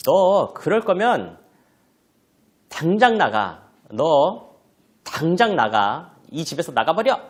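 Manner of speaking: loud, high, slow angry orders; acted telling-off, each command hit hard; scolding mother. Mother orders child out of the house, scolding loudly. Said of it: "엄마가 자녀에게 야단을 치고 있습니다".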